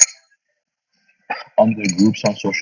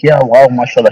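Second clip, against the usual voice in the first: higher, louder mock admiration; imitated praise; 4 semitones higher, 5 dB louder than usual. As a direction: imitate an impressed fan praising someone. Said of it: "He was directly praising that woman".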